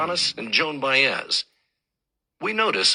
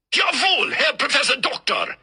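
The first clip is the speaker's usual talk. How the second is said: class shouting back; 11 semitones higher than usual. Acted. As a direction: bellow it like eager students to their professor. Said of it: "the class shouts back".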